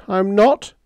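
very high, loud wailing question; wailed. A narrator's reading. Sparks, miserable over his wrecked set, wailing. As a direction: end the complaint on a high wail. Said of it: "I wailed".

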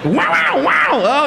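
bobcat roar. Pretend. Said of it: "I'm a bobcat".

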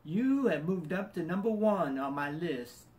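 slow imitation of a Southern mechanic; Southern accent. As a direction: stretch it out in a put-on Southern accent. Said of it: "I'll do my best Southern accent".

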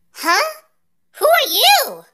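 high-pitched, startled questioning; baffled surprise. Acted. Hero asking a stranger who they are, baffled. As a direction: pitch jumps up in puzzlement.

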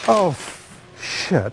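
sudden slip, then a dropped curse; startled curse. Real, not acted. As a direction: blurt it out as something goes wrong. Same mishap replayed.

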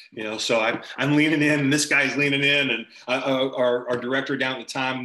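ordinary delivery

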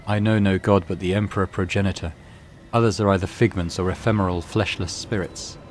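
lightly voiced monotone mutant priest.

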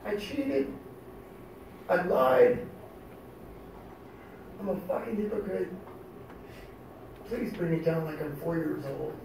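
soft, defeated plea to God; subdued confession. Retold or imitated. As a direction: drop into a hushed, humble prayer. Confession and plea after yelling.

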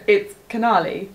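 "Canali" with a firm ah in the middle; "Canali", middle vowel open as in "father"; corrected pronunciation. Shown as a demonstration. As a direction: correct it to "Canali", long "nah", no E. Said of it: "There's no E in".

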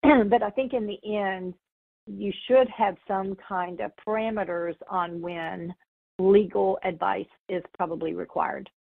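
slightly hoarse, losing voice; strained voice, fading out. Real, not acted. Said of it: "Sorry, I'm losing my voice".

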